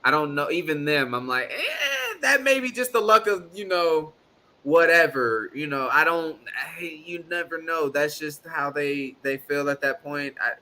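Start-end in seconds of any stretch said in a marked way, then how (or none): 1.5-5.5 dismissive voice. Retold or imitated. Imitating fish shrugging it off.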